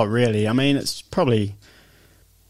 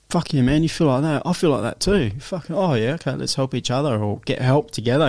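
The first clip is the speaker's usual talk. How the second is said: higher-pitched, eager agreement; raised pitch, lightly acted enthusiasm; supportive mate; 3 semitones higher than usual. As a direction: play a mate keenly relating. Acts out today's supportive mates.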